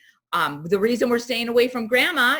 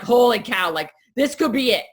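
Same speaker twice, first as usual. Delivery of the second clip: mock panic; 3 semitones higher, 4 dB louder than usual. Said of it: "and you're like".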